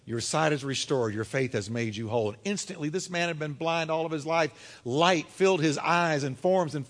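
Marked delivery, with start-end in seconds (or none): 0.0-2.3 low, soft words of healing; mild, hushed assurance; gentle pronouncement. Acted. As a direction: grant it quietly and surely.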